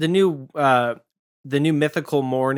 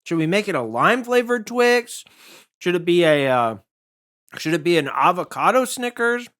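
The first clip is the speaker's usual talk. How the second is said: mock brand executive; 5 semitones higher than usual. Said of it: "They don't have to be like".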